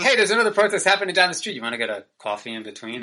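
quick, high flirty ask; cheesy pickup line. Pretend. Pretending to ask a protester out, fast and high. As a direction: pitch it fast like a smooth operator.

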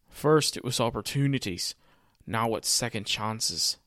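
weak Irish accent, barely there; half-hearted Irish accent, slowing on the second line; bad Irish accent. Shown as a demonstration. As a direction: try a Finn Balor Irish lilt and miss. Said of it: "That's my bad Irish accent".

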